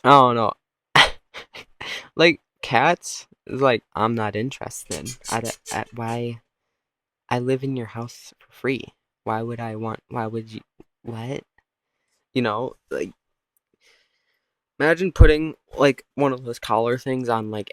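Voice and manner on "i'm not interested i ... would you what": soft, understated indifference; lightly voiced aloof cat; quietly baffled, dismissive cat; uninterested cat. Cat coolly refusing.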